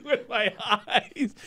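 slow words through laughter; laughing. Real, not acted. Repeating her words while laughing. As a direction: echo the line while cracking up.

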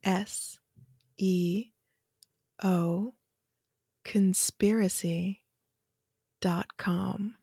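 slow, breathy, whispered intro; sexy voice. Acted. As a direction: seductive whisper, drawn out slowly. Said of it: "that kind of level of sexiness in the introduction".

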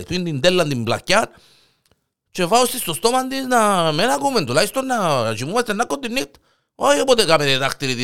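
high, quick pitching of the tape idea; eager high suggestion. Acted. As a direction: push the duct tape plan. Panagiotis suggests the duct tape. (πρόθυμη, ψηλόφωνη πρόταση)

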